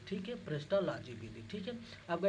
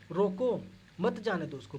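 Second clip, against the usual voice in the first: loud "रोको", then a pause before "मत जाने दो उसको"; pause after roko; 3 semitones higher, 5 dB louder than usual. Shown as a demonstration. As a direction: punch "रोको" and break before "मत". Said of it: "लिखा".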